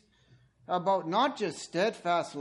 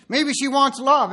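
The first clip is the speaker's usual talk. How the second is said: louder and higher, slower; emphatic suggestion; 7 semitones higher, 10 dB louder than usual. Real, not acted. Preacher suggesting what the bride wants, emphatic. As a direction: land the word love with weight. Preacher builds to his point.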